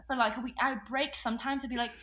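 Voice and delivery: chatty mock-British storytelling; imitation British accent; put-on British accent. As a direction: keep up a pretend British accent. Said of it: "I gotta get into my British accent".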